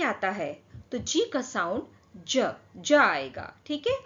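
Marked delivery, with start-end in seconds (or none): 2.3-2.9 slow, lower, isolated "ज" sound; soft G sound. Shown as a demonstration. Teacher showing the soft G sound, demonstrative. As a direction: say "ज" like English j. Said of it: "ये हमारा soft जी sound होगा".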